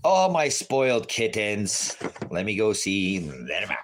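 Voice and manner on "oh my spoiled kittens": doting drawl. Real, not acted. Doting exclamation over cats.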